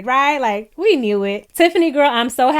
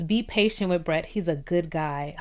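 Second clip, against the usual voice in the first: gentle father; 5 semitones lower, 8 dB quieter than usual. Retold or imitated. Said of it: "He says".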